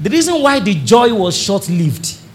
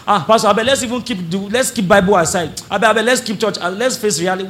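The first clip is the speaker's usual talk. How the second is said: mock pleading; 3 semitones higher, faster than usual. Discouraged believer begging the pastor to face reality, mock pleading. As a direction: plead to be let off, lightly acted.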